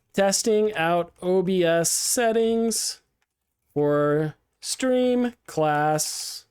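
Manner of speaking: slow, monotone robot voice. Pretend. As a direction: speak like a robot while typing. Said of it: "you have to talk like a robot".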